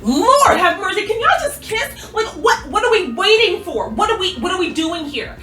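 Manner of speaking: high, laughing, exasperated plea; frustrated fan yelling at the screen; exasperated fangirl. Real, not acted. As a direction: beg the couple to just kiss. Exasperated fan begging them kiss.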